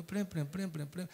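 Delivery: soft repeated "prim prim"; imitated pulpit prattle. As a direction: mimic someone just talking away, quietly. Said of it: "He will just be talking".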